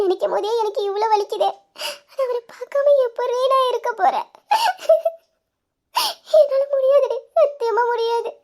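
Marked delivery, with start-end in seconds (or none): 2.1-8.3 tearful, voice catching on a sob; pleading through tears that she can't bear it; crying. Acted. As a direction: heartbroken crying. Sister weeps over lost love.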